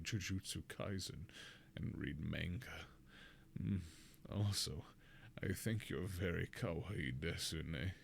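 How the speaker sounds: hushed, low anime-nerd murmur; awkward anime fanboy. Acted. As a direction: play a shy waifu-lover, hushed and deep. Continues the copypasta in character.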